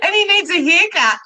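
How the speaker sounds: high laughing; laughing through the words; real laughter. Real, not acted. Both laughing recalling description.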